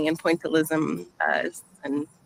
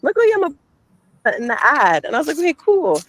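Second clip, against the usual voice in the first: breaking up over a bad phone line; words cutting in and out on a call; call dropping out; 3 dB louder than usual. Real, not acted. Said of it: "we can't hear you".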